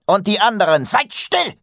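loud, high barked order; booming male voice. A narrator's reading. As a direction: command the whole room to hush. Master silencing the brothers.

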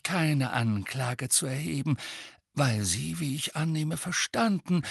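calm. A narrator's reading. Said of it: "sagte Dumbledore ruhig".

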